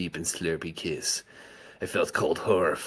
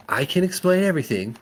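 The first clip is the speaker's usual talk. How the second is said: mom voice; 11 semitones higher, 5 dB louder, faster than usual. Acted. Mom pleading.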